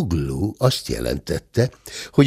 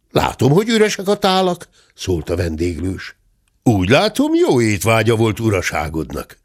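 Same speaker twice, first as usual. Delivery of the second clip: dry innkeeper; 2 semitones higher than usual. Acted. The innkeeper to the squire, dryly teasing. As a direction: tease the guest dryly.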